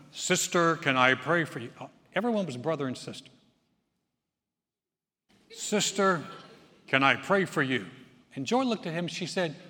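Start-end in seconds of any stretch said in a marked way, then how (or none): 0.1-1.7 louder, pious mock sweetness; unctuous churchman. Preacher imitating the man offering to pray for his wife. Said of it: "he came up to Joy and went". 5.5-7.9 louder, pious mock sweetness; unctuous churchman. Preacher imitating the man offering to pray for his wife. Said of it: "he came up to Joy and went".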